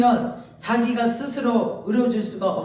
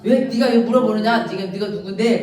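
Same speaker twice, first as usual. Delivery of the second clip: mildly raised, indignant challenge; acted rebuke; 5 dB louder than usual. Preacher voicing a rebuke to man questioning God, indignant. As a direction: put the questioner firmly in their place.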